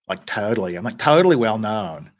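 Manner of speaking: put-on lightly drawled valley girl totally; a hint of valley girl; mock valley girl. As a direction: play the valley girl bit. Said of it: "vocal fry Valley Girl thing".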